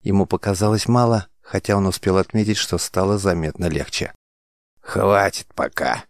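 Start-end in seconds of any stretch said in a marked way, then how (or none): 4.8-6.0 slow, lightly voiced creaky crone; an old healer stopping the patient, mild rasp; grating old woman. A narrator's reading. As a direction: drag it out like an old hag. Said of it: "проскрежетала старуха".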